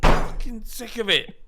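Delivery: high, loud frustrated shout; fed-up outburst. Real, not acted. Fan venting fury at the club's choices, shouted. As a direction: let the frustration burst out. Heated football squad argument.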